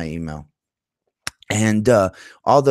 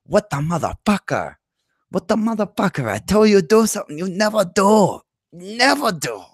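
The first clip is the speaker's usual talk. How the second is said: put-on high scolding wife, Asian accent; 11 semitones higher than usual. Husband imitating his scolding wife in her Asian accent. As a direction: nag him in a Chinese-English accent. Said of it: "this Asian woman in her accent".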